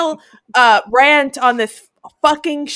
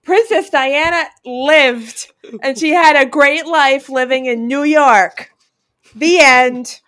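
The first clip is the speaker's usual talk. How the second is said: imagined show ending; 2 semitones higher, 4 dB louder than usual. Acted. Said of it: "take a page and be like".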